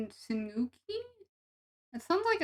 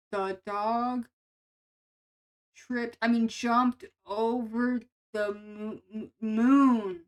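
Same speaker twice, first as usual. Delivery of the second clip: fumbling a read, stretching the stumble; stumbling mock reading; 5 dB louder, much slower than usual. Imagined ASMR reader botching a line, stumbling. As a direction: trip over the words, halting. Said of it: "I'd be tripping up over my words".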